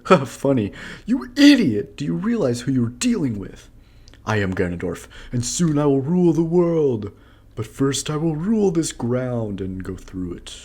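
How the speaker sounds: loud, high ranting villain; megalomaniac rant. Acted. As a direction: rant like a mad overlord. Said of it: "I like how he's like".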